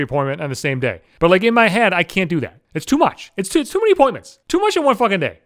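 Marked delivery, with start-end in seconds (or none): 2.7-5.4 mock overwhelmed. Mocking his own overwhelm.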